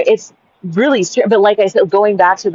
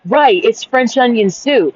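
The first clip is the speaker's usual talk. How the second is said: higher, slower insistence; patient retold correction; 5 semitones higher, slower than usual. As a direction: spell it out slowly, mildly exasperated. Retold argument, first correction.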